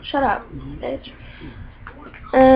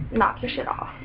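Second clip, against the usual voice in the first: muttered warning; 5 dB quieter than usual. Real, not acted. Ranting at bad drivers.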